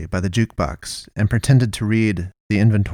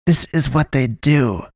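higher-pitched, understated sneer; 5 semitones higher than usual. A narrator's reading. Pastoress pulling him by the collar, sneering. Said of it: "she sneered at him".

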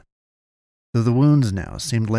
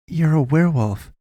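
higher-pitched statement, falling at the end; pressing; 6 semitones higher than usual. A narrator's reading. Boy challenging the wounded man, pressing. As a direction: press the point in a raised pitch. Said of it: "Kalen pressed".

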